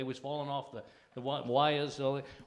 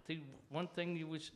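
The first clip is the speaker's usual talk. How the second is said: ordinary talk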